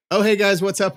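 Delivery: high bright hey guys; mock cheery greeting. Guy bumping into friends again, high cheery hello. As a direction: sing out the greeting.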